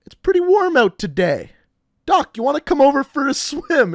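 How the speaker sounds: lightly voiced scheming friend. Jake invites his chemistry teacher swimming, lightly mimicked hopeful pitch. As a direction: imitate a buddy trying his luck. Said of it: "the cogs are kind of turning in his ha".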